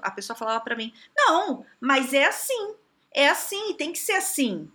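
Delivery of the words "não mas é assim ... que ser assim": higher-pitched imitation of someone digging in; mock stubborn protest. Coach imitating a person who refuses advice, stubborn protest. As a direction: push back like someone who won't budge.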